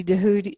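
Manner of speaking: Dehudi as "duh-HOO-dee"; variant name pronunciation. Shown as a demonstration. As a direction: say Dehudi opening on a d. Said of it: "many different ways of pronouncing his name".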